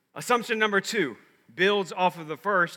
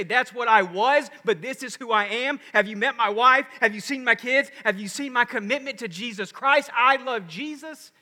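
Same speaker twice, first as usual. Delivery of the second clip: higher-pitched, impassioned declaration; fervent testimony; 4 semitones higher than usual. Acted. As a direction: proudly declare it, building to a higher finish. Acted proud reply at a reunion.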